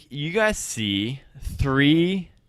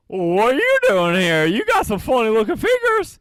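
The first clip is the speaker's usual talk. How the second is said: high squawky bird voice; emu voice; 8 semitones higher than usual. Acted. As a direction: talk like a nosy emu. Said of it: "the emu closest to you says".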